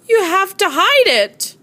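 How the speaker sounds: sick friend's voice. A narrator's reading.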